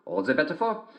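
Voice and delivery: very high sing-song falsetto as the wolf; a wolf pretending to be sweet, sung up high; wolf in disguise. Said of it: "said the wolf".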